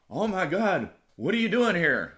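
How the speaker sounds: shocked coworkers. Retold or imitated. Coworkers shocked he showed up to work, high and surprised. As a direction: mimic startled coworkers seeing a ghost.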